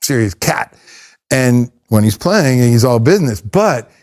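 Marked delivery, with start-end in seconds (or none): 0.0-0.8 low, soft, slow awe; lightly voiced hushed awe; mock awed thinking. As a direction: murmur it like a hushed inner thought. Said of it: "And I'm thinking".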